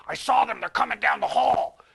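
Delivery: hushed, breathy orc whisper. Retold or imitated. Orc behind the door warning of the kids, whispered. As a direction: rasp it like a sneaky orc warning. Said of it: "you hear the Orc say".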